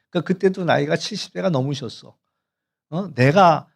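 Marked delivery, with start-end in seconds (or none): 3.2-3.7 mock indignant scolding, somewhat louder; retold angry outburst. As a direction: imitate an elder huffily protesting. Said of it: "막 화를 내면서".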